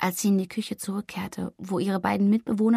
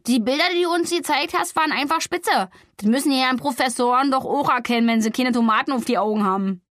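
higher, louder, rushing indignation; indignant outburst; 3 semitones higher, 4 dB louder than usual. Acted. Hotte defending Flori against the professors, indignant and heated. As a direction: defend her pictures heatedly. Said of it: "rief Hotte empört".

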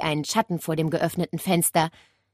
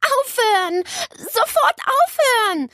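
put-on higher, louder girl's cry, stress on Sofort; angry shout; 6 dB louder than usual. Nele yelling at the wet parrot, angry call. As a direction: snap at the bird to stop. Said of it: "rief Nele sauer".

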